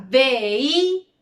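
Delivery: vehículo split up, long HÍ; stress on antepenultimate syllable. Shown as a demonstration. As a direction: lean on HÍ in vehículo. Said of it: "en la antepenúltima sílaba tengo las palabras".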